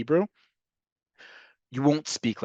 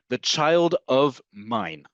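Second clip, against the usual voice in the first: slow literal gloss; much slower than usual. Shown as a demonstration. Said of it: "is the way you would literally translate".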